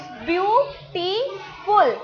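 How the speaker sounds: ब्यूटीफुल in three separated beats, ब्यू-टी-फुल; syllable by syllable. Shown as a demonstration. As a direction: pause after each syllable of ब्यूटीफुल. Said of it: "three times आपकी chain up down हुई".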